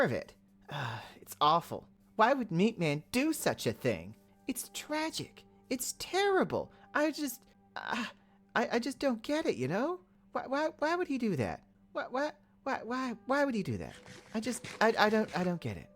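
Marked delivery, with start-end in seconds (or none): 4.5-15.9 high, whiny mock despair; hammed-up heartbreak over a cow; mock distress. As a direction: pretend anguish in a raised voice. Upset over the cow's killing.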